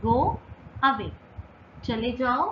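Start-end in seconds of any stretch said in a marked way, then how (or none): 0.0-1.1 "go" and "away" split by a pause; each word set apart clearly. Shown as a demonstration. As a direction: spell out "go" ... "away" slowly for learners. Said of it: "इसे कैसे कहेंगे?".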